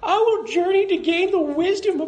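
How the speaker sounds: high, bright boy cartoon voice; Ash Ketchum. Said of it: "Ash Ketchum, uh, I'll play that".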